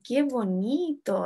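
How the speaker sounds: slow, drawn-out exclamation, "bonito" falling; expresando con emoción. Shown as a demonstration. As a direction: stretch "Qué bonito" with mild acted feeling. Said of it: "Se está expresando con emoción". (exclamación lenta, "bonito" alargado)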